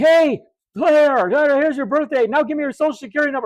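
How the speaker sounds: put-on shrill, very high, rowdy shout. Recounting a game, voicing the noisy kids in the section above; imitating kids yelling. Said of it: "they were like yelling".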